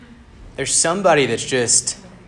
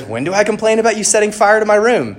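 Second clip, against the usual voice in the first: high, loud, outraged protest; acted indignant outburst; bickering; 11 semitones higher, 9 dB louder than usual. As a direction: complain in exasperated disbelief. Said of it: "they're bickering with each other".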